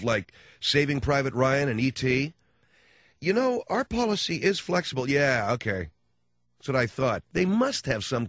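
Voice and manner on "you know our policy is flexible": sudden eager host. Retold or imitated.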